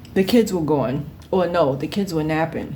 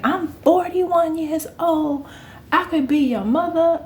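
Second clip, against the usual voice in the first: put-on older coworker scolding; 10 semitones higher than usual. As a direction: drag it out like a condescending elder. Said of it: "She's like".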